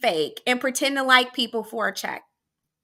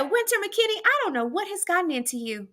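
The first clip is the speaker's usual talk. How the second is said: shocked principal; 7 semitones higher, faster than usual. Retold or imitated. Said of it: "She said".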